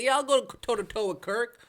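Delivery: lightly hammed-up challenge to Kirk; mock tough Stephen A. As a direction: play up the tough-guy tone. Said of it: "tone in his voice".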